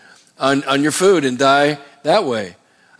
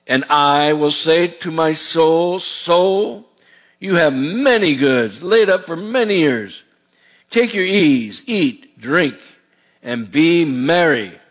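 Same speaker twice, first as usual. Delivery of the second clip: a hint of a complacent rich man; smug rich man; much slower than usual. Rich man talking to his own soul, slow smug reassurance.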